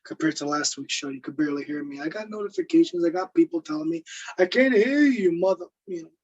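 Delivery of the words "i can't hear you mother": higher-pitched imitation of a griping viewer; imitated grumble, pitched up; mock complaint. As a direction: whine it like an annoyed listener, half-joking. Acting out viewers' complaints about sound.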